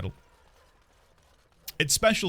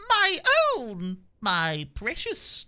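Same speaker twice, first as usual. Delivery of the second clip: much higher, slow creepy croon; high-pitched Gollum attempt; 8 semitones higher, much slower than usual. Streamer failing the Elmo voice, Gollum croon instead. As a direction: coo it like Gollum over his ring. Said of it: "That's just me going high pitched".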